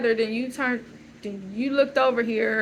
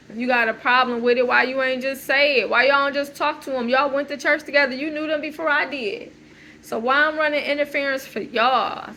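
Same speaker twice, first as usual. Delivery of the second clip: louder and higher, pushing back hard; heated retold outburst; 3 semitones higher, 4 dB louder than usual. Retelling how she defended them, raised and indignant. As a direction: confront them as if it were happening again. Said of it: "Where I'm just like".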